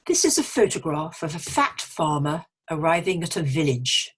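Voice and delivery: pronunciation teacher reading an example aloud; clearly articulated practice sentence; model sentence reading. Shown as a demonstration. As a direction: read it out carefully for learners. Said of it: "I'm going to read a few sentences".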